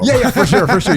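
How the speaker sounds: laughing through the words, pitched high; real burst of laughter as you answer. Real, not acted. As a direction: agree while cracking up. Laughs at cohost's quip.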